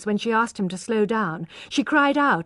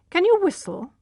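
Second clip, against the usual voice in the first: put-on old lady; 9 semitones higher, 3 dB louder than usual. A narrator's reading. Blind old lady asks.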